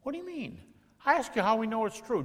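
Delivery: high indignant protest; hammed-up whiny objection; mock indignant doubter. Shown as a demonstration. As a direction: play the offended questioner. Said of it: "don't do that with me".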